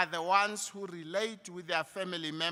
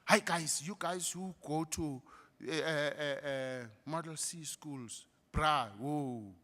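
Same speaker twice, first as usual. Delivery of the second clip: imitating a fake mid-Atlantic accent, softer; phony mid-Atlantic accent; 4 semitones lower, 6 dB quieter than usual. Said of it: "phony mid-Atlantic accent".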